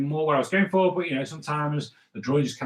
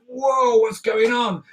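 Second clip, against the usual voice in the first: mock panic; 7 semitones higher, 4 dB louder, slower than usual. Panicked character voiced over drawing.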